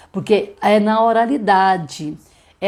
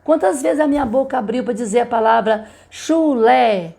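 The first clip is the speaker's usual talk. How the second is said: higher, lively prompt to a class; teacher to child; 4 semitones higher than usual. Shown as a demonstration. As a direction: invite the kids to count along, pitch up. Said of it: "pegue as mesmas palavras da rima".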